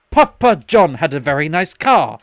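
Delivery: loud, slow mock proclamation; out-of-nowhere announcement. Friend suddenly breaks a lull in conversation, loud announcement. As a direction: declaim it loudly, out of nowhere. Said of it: "out of nowhere, Sean just goes".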